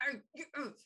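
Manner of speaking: mock grumpy growling noises; imitated pissy muttering; pissy grumbling. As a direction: grumble like a sulking husband. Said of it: "Tim Allen just gets pissy".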